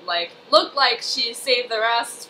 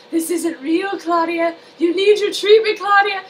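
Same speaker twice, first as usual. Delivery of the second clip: creepy doctor; 7 semitones higher, 4 dB louder than usual. Retold or imitated. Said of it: "he's like".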